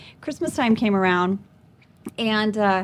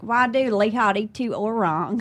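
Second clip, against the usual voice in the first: distorted Indonesian. Retold or imitated. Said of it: "it's very distorted Indonesian".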